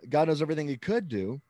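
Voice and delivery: quick recap leaning on COULD; stress on COULD. Shown as a demonstration. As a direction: run through it, marking "could". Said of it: "the heavy emphasis on the word could".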